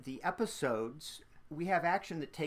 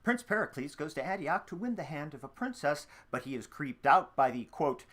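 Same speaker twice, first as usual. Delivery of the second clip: lively previously-on recap; fun recap voice; 5 dB louder than usual. Acted. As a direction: read it like a playful TV recap. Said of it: "in your fun recap voice".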